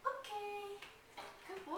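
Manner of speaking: chipper, high-pitched praise for the puppy; chipper release. Real, not acted. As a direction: lift the voice high and cheerful for the dog. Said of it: "a higher, more of a chipper tone".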